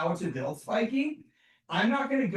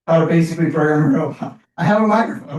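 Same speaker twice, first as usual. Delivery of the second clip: yelling; 6 dB louder than usual. Real, not acted. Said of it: "What am I yelling for?".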